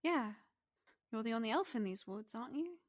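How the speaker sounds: quick, lilting pixie voice; pixie character voice. Acted. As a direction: question him as a perky pixie. Game master plays the pixie.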